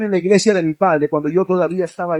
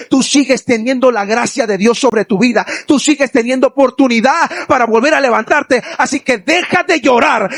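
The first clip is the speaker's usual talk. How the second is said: firm; 4 semitones higher than usual. Retold or imitated. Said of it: "me hizo hablarle con firmeza".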